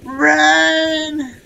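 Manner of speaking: loud, high alarm call; panicked shout. Real, not acted. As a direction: yell at everyone to flee. Panic warning to team.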